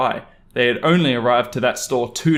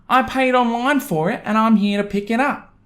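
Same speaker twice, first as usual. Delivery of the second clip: entitled mum; 9 semitones higher than usual. Acted. Entitled mum lies about paying.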